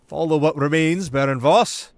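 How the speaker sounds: a sly noble flattering the crown; Marquis's voice. Acted. Marin praising the prince before the advisors.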